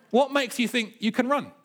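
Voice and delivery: high-pitched acted disbelief; incredulous official. Official doubting an elderly entrant, incredulous. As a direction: question him high, in mock disbelief.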